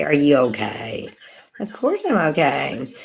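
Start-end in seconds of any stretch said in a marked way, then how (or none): 0.0-1.1 mock concerned asker. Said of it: "I hate it when people say".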